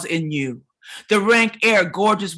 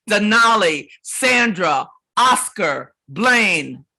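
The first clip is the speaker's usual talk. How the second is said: calling out each name loud and raised; louder, urgent roll call of names; loud litany; 3 semitones higher, 4 dB louder than usual. Acted. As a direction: ring out every name like a roll call of the dead.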